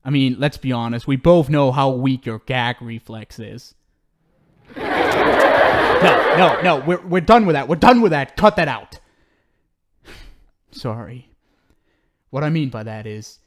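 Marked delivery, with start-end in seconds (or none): 4.8-7.1 loud laughing denial. Acted. Laughing while cutting her off. 7.1-9.0 louder, sharp order to stop; firm snap. Acted. Villain snaps at struggling captive.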